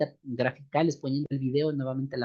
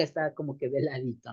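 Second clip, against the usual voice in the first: off-mic demo; 2 semitones lower, 7 dB quieter than usual. Shown as a demonstration. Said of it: "en vez de apuntar a la boca".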